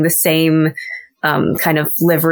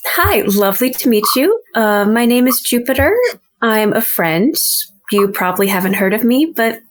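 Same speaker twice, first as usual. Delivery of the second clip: bright, higher, unhurried introduction; friendly stranger Jupiter; 5 semitones higher than usual. Pretend. Player's character greeting the stable boy, higher and friendly. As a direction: charm him gently into trusting you. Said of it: "peek around and go".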